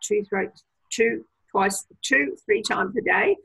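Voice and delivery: tripping over the numbers; stuttering. Real, not acted. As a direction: stumble and restart the words. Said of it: "I'm stuttering well there".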